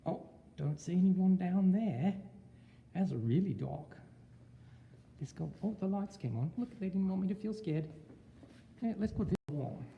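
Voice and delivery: a put-on Australian accent; teacher asking students to rate his Australian accent. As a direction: lay on the Australian twang. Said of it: "How's my accent so far?".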